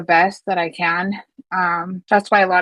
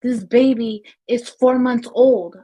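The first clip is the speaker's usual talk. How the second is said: retold crying plea; 4 semitones higher than usual. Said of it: "And I'm crying".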